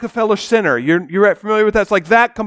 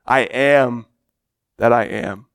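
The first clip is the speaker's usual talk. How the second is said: much lower, slow and solemn; voice of God; 12 semitones lower, 4 dB quieter than usual. Acted. God answering Moses at the burning bush, low and solemn.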